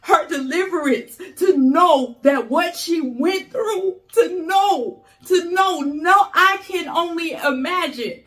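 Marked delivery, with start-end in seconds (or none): 1.4-8.2 real emotion pushing the pitch up, close to crying; welling up. Real, not acted. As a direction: voice rising as tears come near. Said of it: "And I'm about to cry".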